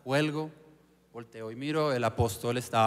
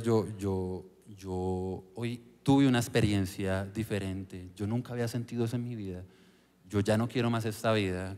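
sincere prayer; 4 semitones lower, 4 dB quieter than usual. Retold or imitated. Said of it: "le dije a Dios".

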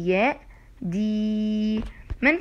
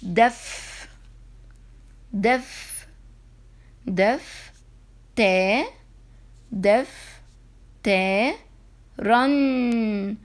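دف، تا، رن said apart; syllable by syllable; much slower than usual. Shown as a demonstration. Teacher and class chanting دف تا رن apart. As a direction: chant each syllable of دفترا. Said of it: "هيا نقرأ الكلمة التي تليها".

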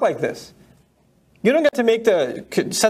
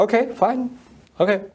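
ordinary talk, nothing marked

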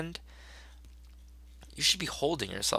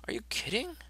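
pitched way up in disbelief; high incredulous squeak; 14 semitones higher, 8 dB quieter, faster than usual. Acted. Comic character asks in a high squeaky voice. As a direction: squeal it in cartoon shock.

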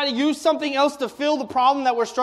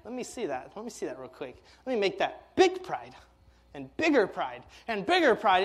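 lightly voiced tempter, lower and softer; sly devil; 3 semitones lower, 4 dB quieter than usual. Preacher voicing the devil tempting pride, lower and sly. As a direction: coax pride bigger, sly and hushed. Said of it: "that devil is like".

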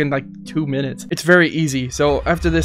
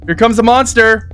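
higher, louder panicked call; alarmed; 5 semitones higher, 4 dB louder than usual. Real, not acted. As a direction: cry out in alarm. Monster approaching.

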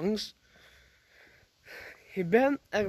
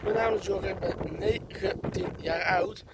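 wind on mic. Real, not acted. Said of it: "sorry van de wind daarvoor".

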